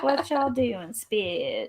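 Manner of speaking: lightly mimicked comedian catchphrase; imitating a comedian. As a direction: playfully mimic his cursing story opener. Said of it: "he always starts his stories usually by cursing".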